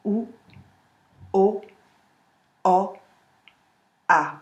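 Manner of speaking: "Ou, o, o, a" again, slow and apart, A behind the teeth; spoken vowel drill. Shown as a demonstration. Coach repeats the vowel line for students, slowly. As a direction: place each vowel, A forward behind the teeth. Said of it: "On repart".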